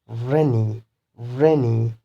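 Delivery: RAI-ny, weight on the first syllable of rainy; first-syllable stress. Shown as a demonstration. Teacher gives an example of an adjective, stress on RAI in rainy. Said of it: "primary stress should be on the first syllable".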